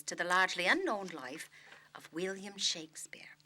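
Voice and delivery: put-on lightly Irish-accented storytelling. Actor reading about Shakespeare's death on request, light Irish accent. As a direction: read it out with a touch of Irish. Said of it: "do it with an accent".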